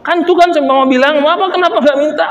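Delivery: high mock complaint; imitating a wife pressing her husband; wife scolding husband for not demanding payment; nagging wife. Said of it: "istrinya tambah".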